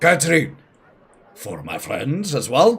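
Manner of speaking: very loud, swooping shout. A character spots two friends walking in and shouts over to a woman; shouting. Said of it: "just shouts".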